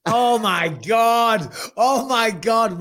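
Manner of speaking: high, slow drawn-out oh my God; delighted gasp. Real, not acted. Seeing the friend's pug on camera, delighted. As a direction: squeal over the cute pug.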